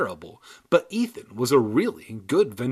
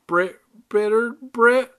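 high tongue-twister; 11 semitones higher, 7 dB louder than usual. Acted. Tongue twister, fumbled name.

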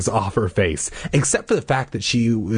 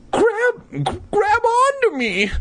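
urgent instruction. Acted. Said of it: "I instructed".

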